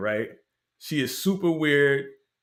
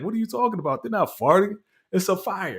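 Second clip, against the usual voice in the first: annoyed reader; 5 semitones higher than usual. Retold or imitated. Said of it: "She's like".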